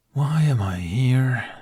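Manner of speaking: slow, breathy whispered plea to the sky; exasperated whisper. A narrator's reading. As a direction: whisper it up to the heavens in despair. Dragon complains to the heavens.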